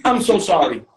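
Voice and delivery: sorry said through real laughter; can't stop laughing while apologizing; laughing apology. Real, not acted.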